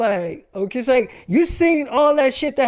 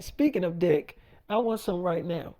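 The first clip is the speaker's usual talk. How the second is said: low, quiet come-on; 6 semitones lower, 8 dB quieter than usual. Retold or imitated. Wife voiced propositioning husband.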